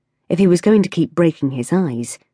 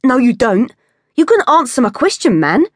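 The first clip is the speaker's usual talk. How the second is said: high, loud goading voice; taunting street kid; 9 semitones higher, 5 dB louder than usual. A narrator's reading. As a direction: block him and mock him. Kid blocking Ivor's way.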